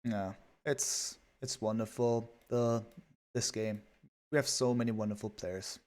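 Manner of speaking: understated, dryly sarcastic; deadpan sarcasm. Real, not acted. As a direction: praise it softly, not meaning a word. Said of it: "enough with the sarcasm".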